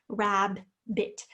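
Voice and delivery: RABBIT in two parts, RAB and BIT; split into syllables. Shown as a demonstration. Teacher shows two short syllables, RABBIT split as rab, bit. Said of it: "two short syllables".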